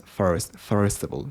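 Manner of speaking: "first" with a strong American R; "first of all" said with an R-coloured vowel. Shown as a demonstration. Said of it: "sometimes I pronounce R".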